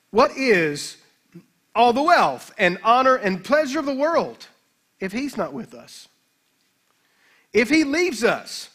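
measured oratorical reading with long pauses; quotation reading. A narrator's reading. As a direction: deliver the rhetorical questions slowly to the congregation. Reads quote from a commentary.

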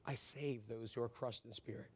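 quiet promise; gentle reassurance. Acted. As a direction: drop down tenderly to console the crushed. God's promise quoted to the hurting.

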